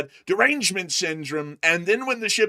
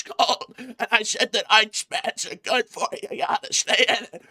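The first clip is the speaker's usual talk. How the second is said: Trump impression. Deadpan Trump-like role voice.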